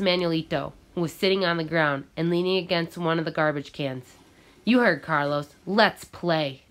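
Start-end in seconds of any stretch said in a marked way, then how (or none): 4.6-6.6 loudly. Acted. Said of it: "I said loudly".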